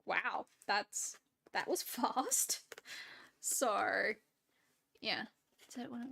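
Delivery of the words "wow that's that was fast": quoting recruiter. Retold or imitated. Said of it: "that other recruiter was like".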